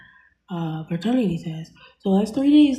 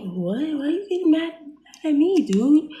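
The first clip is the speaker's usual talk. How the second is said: upset pushback; 8 semitones higher, 4 dB louder than usual. Retold or imitated. He gets mad at her.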